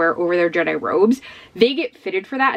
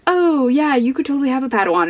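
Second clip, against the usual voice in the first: Obi-Wan; 5 semitones higher than usual. Retold or imitated. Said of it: "Obi-Wan just keeps being like".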